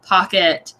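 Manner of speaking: "pocket" with its first vowel drawn out; elongated vowel. Shown as a demonstration. Podcast guest shows a changed East Coast vowel, "pocket" elongated. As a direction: say "pocket" slowly, stretching the vowel. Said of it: "I've elongated some of my vowels".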